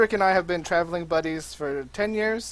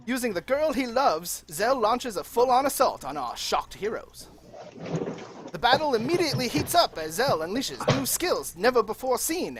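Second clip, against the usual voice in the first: put-on old timey radio announcer recap; dramatic announcer narration, rising with the battle; grand old ballroom announcer; 5 semitones higher, 5 dB louder than usual.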